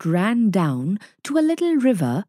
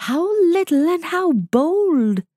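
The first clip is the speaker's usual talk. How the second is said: soft mother wolf; 9 semitones higher than usual. A narrator's reading. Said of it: "said Mother Wolf softly".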